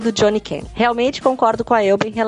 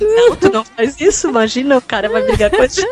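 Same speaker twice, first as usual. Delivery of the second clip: flustered protest; 5 semitones higher than usual. Real, not acted.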